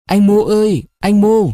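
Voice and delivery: high, hushed call under the door; a young woman's timid call from below; timid girl calling. A narrator's reading. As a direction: call out shyly in the night. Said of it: "những tiếng gọi rụt rè".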